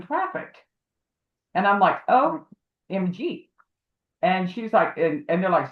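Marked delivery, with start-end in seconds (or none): 2.1-3.5 shocked exclamation. Retold or imitated. Realizing traffickers target her.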